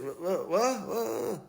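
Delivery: high, bewildered repeated what; lost and baffled, pitch climbing; confused what. Retold or imitated. Dazed Ryan answering the interrogator, high bewildered confusion.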